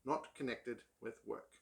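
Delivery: measured book reading; reading aloud. Acted. Reading an essay passage to viewers, measured read-aloud. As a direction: read the essay out in careful phrases.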